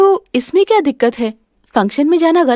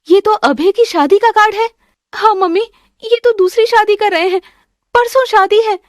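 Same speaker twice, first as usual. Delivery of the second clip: high, pained tearful complaint; upset and tearful; 7 semitones higher than usual. Acted. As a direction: voice lifted high in distress. Daughter tearful over husband's wedding card. (ऊँची, दुखी, रुआँसी आवाज़)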